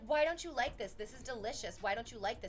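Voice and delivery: mildly exasperated mock scolding; imitated angry mom. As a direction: imitate a mom badgering her kids. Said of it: "she would, like, get angry at them".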